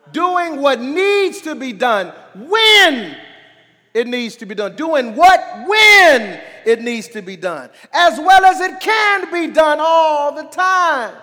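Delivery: preacher punching WHEN, long and strong; emphatic preaching. Real, not acted. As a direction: hammer home the repeated definition. Repeats definition with preaching emphasis.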